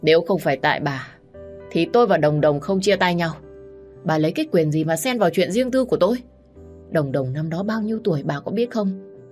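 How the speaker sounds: angry shouting. Acted. Son accuses his stepmother, shouting hoarsely. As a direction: yell until the voice gives. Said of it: "Anh quát lên đến khàn cả giọng".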